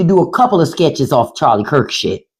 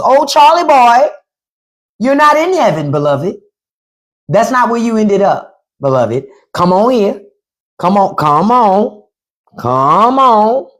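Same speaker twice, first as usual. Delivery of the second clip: mock devilish welcome; 3 semitones higher than usual. Devil welcomes Charlie into hell.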